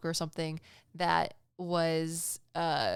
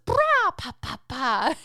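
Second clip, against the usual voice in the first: put-on much higher, louder baby shout then babble; baby call imitation; 6 semitones higher, 7 dB louder, slower than usual. Baby waves at his parents from the grass: high baby call. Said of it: "and he goes".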